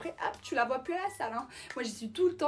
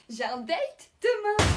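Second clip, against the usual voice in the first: high teasing brag; 9 semitones higher, 8 dB louder, much slower than usual. Acted. Teasing announcement of a date.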